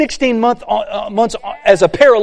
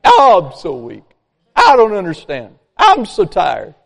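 whining weak person. Retold or imitated. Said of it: "the weak should say something".

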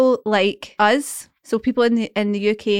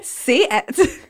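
put-on, impatient plea; exasperated urging; 3 semitones higher than usual. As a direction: urge them to finish the sentence. Urging the video speaker again.

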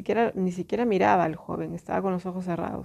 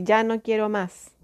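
mildly raised, retold outcry; voice bursting out; 2 semitones higher than usual. Woman retelling the moment her voice came out, mild retold outcry. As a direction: let the held-in thought come out aloud, moderately firm. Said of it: "me salió la voz y dije".

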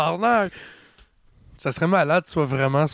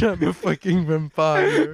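laughing; slower than usual. Retold or imitated. Mocking friend's line.

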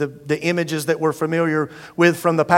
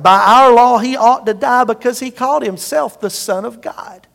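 insistent accusation; 6 semitones higher, 5 dB louder than usual. Acted. Leaders insisting to Pilate.

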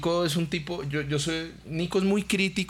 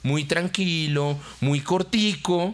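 slow dad-dance; 5 semitones higher, much slower than usual. Shown as a demonstration. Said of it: "hacer un pasito sencillo".

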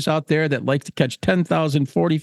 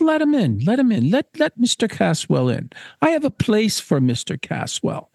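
higher-pitched, eager God voice; welcoming God; 6 semitones higher than usual. Acted. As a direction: call out as God opening the gates. God calling to admit Caswell.

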